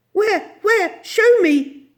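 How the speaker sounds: high, loud urgent questioning; loud, flustered lady's cry; frantic eagerness. A narrator's reading. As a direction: beg urgently to be shown. Miss Lark hunts for her dog.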